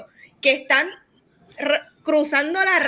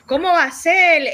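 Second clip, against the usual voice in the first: mock outrage; 5 semitones higher, 4 dB louder than usual. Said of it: "hubo un outrage de que".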